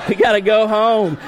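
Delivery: loud, high mock regret from a dad; exaggerated pretend disappointment; feigned dismay. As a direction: break the fake bad news, hammed up. Dad feigns disaster to his kids.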